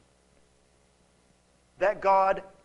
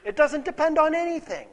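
indignant objection; 8 semitones higher, 7 dB louder than usual. Retold or imitated. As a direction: voice the listener's complaint against God. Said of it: "We're tempted to say".

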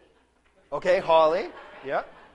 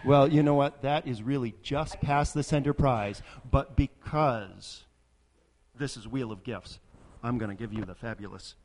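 loud carnival barker; 10 dB louder than usual. Acted. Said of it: "everyone's a winner".

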